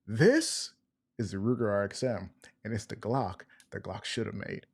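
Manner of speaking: hyped YouTube intro announcer; punchy video opener delivery; YouTuber voice. Shown as a demonstration. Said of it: "gonna use my, my YouTuber voice".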